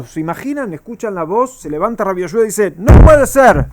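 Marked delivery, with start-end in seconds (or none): 2.8-3.7 loud, high outraged cry; loud indignant exclamation; shout. Retold or imitated. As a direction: cry out in protest. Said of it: "Y grita".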